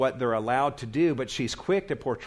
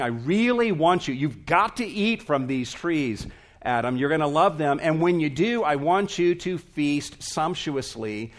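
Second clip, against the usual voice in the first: louder, urging, eager invitation; emphatic God; 3 semitones higher, 3 dB louder than usual. Retold or imitated. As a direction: press the invitation home like an insistent host. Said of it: "This was an emphatic way of God saying".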